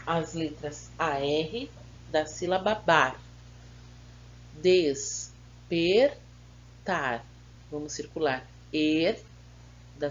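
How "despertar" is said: "Despertar" as three syllables set apart; split into syllables. Shown as a demonstration. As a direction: break "Despertar" at each syllable with a pause. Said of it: "Separe as sílabas dessas palavras".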